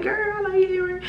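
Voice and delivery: half-crying, disbelieving whine; mock tearful complaint to the friend who dragged her along; exasperated whine. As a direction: whine it like you can't believe she did this. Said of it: "I was so mad".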